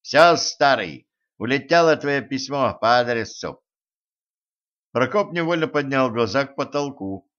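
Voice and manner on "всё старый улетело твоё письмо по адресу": proud announcement. Acted. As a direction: announce it with pride. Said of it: "горделиво объявил".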